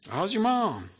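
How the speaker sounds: high, laughing Southern greeting; Southern boy voice. Retold or imitated. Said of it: "Baxter's going".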